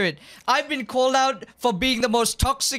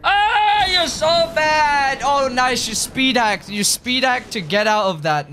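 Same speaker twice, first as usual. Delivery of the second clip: yelling; 4 dB louder than usual. Real, not acted. Yelling at cheating enemy.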